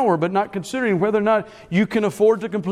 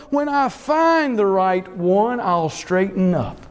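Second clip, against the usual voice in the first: lightly voiced young person, raised then falling; quoted young person; slower than usual. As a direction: lightly imitate a young person putting things off. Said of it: "heard young people make a statement like this".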